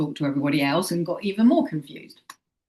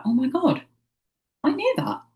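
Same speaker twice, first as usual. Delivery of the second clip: sudden high-pitched oh my God, I knew it; surprised realization; 7 semitones higher than usual. Retold or imitated. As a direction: squeal it as the truth clicks. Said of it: "you're like".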